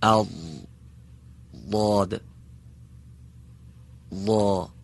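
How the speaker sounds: «ضا» with the tongue side on the upper molars, thick and backed; emphatic dad. Shown as a demonstration. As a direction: say «اض، ضاد، ضا» slowly, heavy d-like sound. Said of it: "دقت بفرمایید". (ضاد درشت با صدای شبیه دال)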